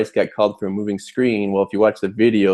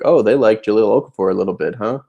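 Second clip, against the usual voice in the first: dry, sarcastic quip, a bit fast; faster than usual. Retold or imitated. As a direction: tease with mock innocence. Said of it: "Very sarcastically".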